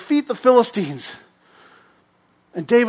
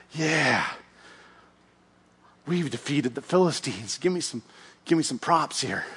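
smug boast; 4 semitones lower, 9 dB quieter than usual. Acted. Saul boasting on victory tour.

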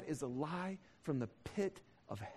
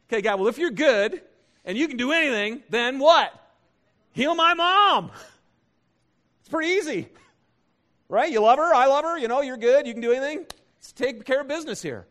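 loud, pressing demand to God; insistent pleading; 7 semitones higher, 13 dB louder than usual. Retold or imitated. Son demanding God heal his mom, loud and insistent. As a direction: argue your case, getting louder.

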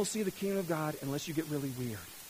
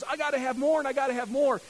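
voicing greedy success; 7 semitones higher, 8 dB louder than usual. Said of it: "Human success goes".

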